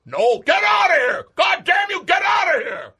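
high, loud furious scream; furious shout. Acted. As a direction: scream at her to leave. Santa screaming at wife.

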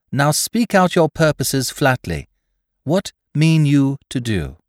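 put-on level, firm young woman's voice; quiet command. A narrator's reading. Polly challenging the crew with quiet command. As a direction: demand answers, cool and steady. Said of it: "quiet command in her voice".

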